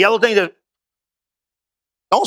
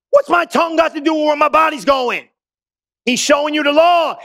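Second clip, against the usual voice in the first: preaching shout; 5 semitones higher than usual. Real, not acted. Preacher drives home his point.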